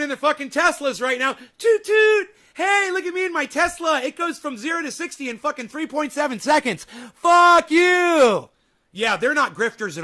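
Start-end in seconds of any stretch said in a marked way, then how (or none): 1.6-8.5 high, loud, put-on bragging voice; mock smug Tesla owner. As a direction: play a smug rich politician showing off his car. Mocking a Democrat in Tesla.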